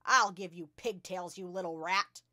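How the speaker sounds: very loud, menacing yell. A narrator's reading. Headmistress swings a pupil by the pigtails, yelling. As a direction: roar it as a threat. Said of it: "the Trunchbull was yelling".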